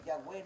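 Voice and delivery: "Yahweh" with a U-like W glide; rejected pronunciation. Shown as a demonstration. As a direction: say "Yahweh" as the mistake. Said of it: "no es Yahweh".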